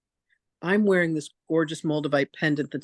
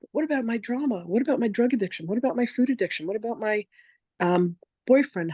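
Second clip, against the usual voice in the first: imitated string of complaints in a higher voice; mock protesting; 5 semitones higher than usual. Voicing us answering Spirit with excuses, mock protesting.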